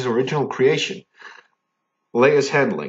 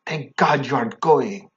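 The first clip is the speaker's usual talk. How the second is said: badly faked Mexican accent; poor attempt at a Mexican accent. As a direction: read it in a rough Mexican accent. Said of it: "read this in a Mexican voice".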